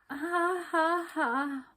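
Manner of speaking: forced, high fake laughter; doleful laugh. A narrator's reading. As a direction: laugh without any joy. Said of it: "she said dolefully".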